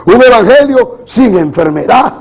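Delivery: forceful, insistent sermon voice; preaching. Real, not acted. Preacher warns congregation against the prosperity gospel, preaching. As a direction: press the point on the congregation in punchy phrases.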